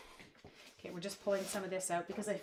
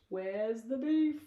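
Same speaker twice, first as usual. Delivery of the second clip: higher, louder, drawn-out catchphrase; slow mock-demanding commercial call; little lady from commercial; 4 semitones higher, 6 dB louder, much slower than usual. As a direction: imitate the advert lady, stretching it slowly. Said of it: "wasn't it those two little ladies".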